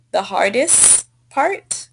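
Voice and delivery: slow "hardest", ending fully sounded; demonstrated correction. Shown as a demonstration. Teacher offers a student the correct form, slow clear "hardest". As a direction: spell out the "-est" of "hardest" by ear. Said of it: "either you can say".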